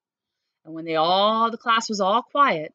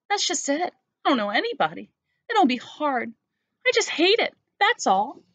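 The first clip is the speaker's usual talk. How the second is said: put-on whiny little girl; 8 semitones higher than usual. Sarah refuses school.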